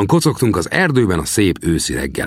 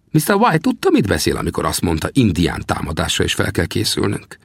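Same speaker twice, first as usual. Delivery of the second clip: put-on old trapper questions the young man. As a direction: play the grizzled scout, needling the greenhorn. Sam's first line, raised voice.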